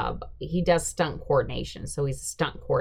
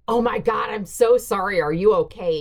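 louder, alarmed apology; horrified apology after landing the punch; panicked apology; 3 semitones higher, 9 dB louder than usual. Retold or imitated. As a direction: blurt out a shocked sorry.

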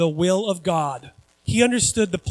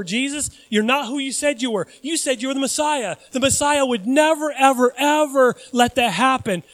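higher-pitched scoffing doubter; incredulous dismissal; 5 semitones higher than usual. Acted. Doubters to Jesus, high-pitched disbelief. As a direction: dismiss him with building emphasis.

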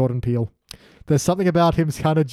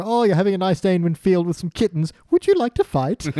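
mock polite invitation; 4 semitones higher than usual. Mock polite invitation in acted quote.

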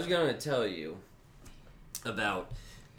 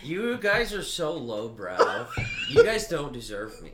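snooty artist; 6 semitones higher, 5 dB louder than usual. Pretend. Mock snooty artist storming off.

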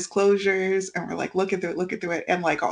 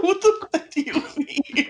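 laughing disbelief; 7 semitones higher than usual. Retold or imitated. Retelling shock at doctor's diagnosis.

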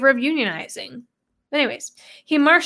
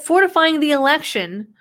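mocking air quotes; 4 semitones higher than usual. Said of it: "quote unquote".

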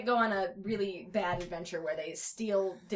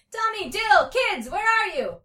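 high, loud, stretched-out calling; long carrying search call; yelling; 13 semitones higher, 11 dB louder, slower than usual. A narrator's reading. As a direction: yell names across a garden. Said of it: "started yelling".

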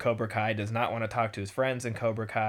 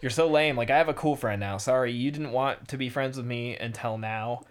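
put-on mean girl. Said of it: "And Aisha's like".

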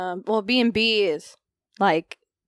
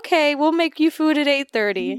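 higher, lightly voiced agreeable Irish host; mock obliging host; 6 semitones higher than usual. Daughter imitating the B and B host, mock obliging. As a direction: play the cheerful host. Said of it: "And they're like".

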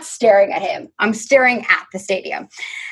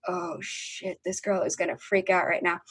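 hushed, much softer aside; friends' scared aside; 2 semitones lower, 11 dB quieter than usual. Retold or imitated. Scared friends watching her keep composure, hushed dread. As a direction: imitate worried friends under their breath. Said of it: "My friends were scared".

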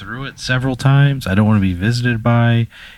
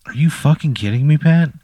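exasperated; 5 semitones higher, 4 dB louder than usual. Real, not acted. Outraged at the ghost.

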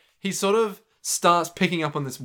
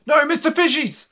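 mock wail; 13 semitones higher, 6 dB louder than usual. Mock despair cry.

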